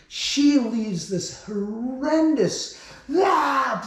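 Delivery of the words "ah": mock scream. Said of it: "blood-curdling scro-, scream at the top of her lungs".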